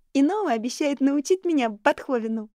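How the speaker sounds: высоким громким детским голосом; радостно зовя тётю; детский возглас. A narrator's reading. Шарлотта хвастается. (девочка восторженно зовёт тётю Нори)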